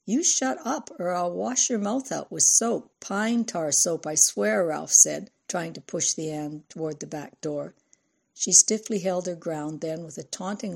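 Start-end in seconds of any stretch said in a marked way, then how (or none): 0.1-4.7 angry threat. Acted. Father threatening daughter.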